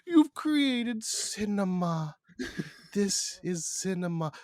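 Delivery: high, drawn-out hammed-up gushing; Nolan gushing. Director swooning over the baby lamb, high hammed-up delight. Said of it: "even Nolan would be like".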